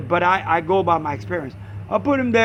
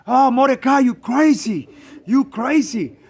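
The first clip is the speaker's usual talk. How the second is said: exasperated protest; 4 semitones higher than usual. Retold or imitated. Friend scolds him again, retold.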